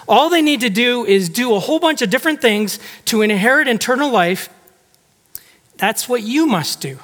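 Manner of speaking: overpraise him with heavy irony; sarcastic. Shown as a demonstration. Jesus mocking the lawyer's self-righteous answer, sarcastic. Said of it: "it was completely sarcastic".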